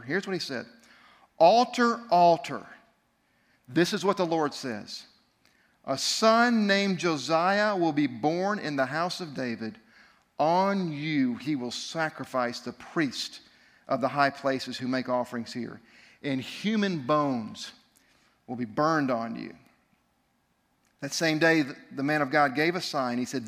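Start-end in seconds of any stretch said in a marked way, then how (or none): 1.4-2.7 prophet's loud proclamation; crying out. Acted. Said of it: "he cried out against the altar". 3.7-19.5 slow, low scripture reading; grave preacher reading the prophecy; solemn prophecy reading. Acted. Reads prophecy slowly.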